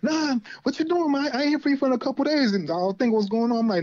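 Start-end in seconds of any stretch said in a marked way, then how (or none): 0.0-2.5 imitating Gail. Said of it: "And she was like".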